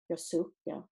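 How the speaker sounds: ordinary delivery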